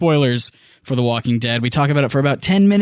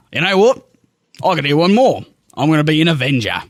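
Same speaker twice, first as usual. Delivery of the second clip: a louder Australian declaration; mock Australian accent; 3 dB louder, faster than usual. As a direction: announce it like an Aussie star. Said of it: "for that performance".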